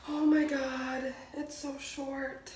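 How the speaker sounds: drawn-out shock. Real, not acted. Reacting to hair so short, drawn-out shock. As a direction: stretch out the words in dismay.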